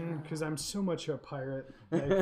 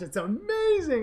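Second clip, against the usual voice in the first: put-on excited kid; 11 semitones higher, 6 dB louder than usual. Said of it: "And he's like".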